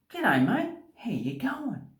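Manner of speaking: high, drawn-out friendly hello; friendly greeting. Shown as a demonstration. Showing viewers an informal g'day, friendly and high. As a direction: greet a mate, pitched well up.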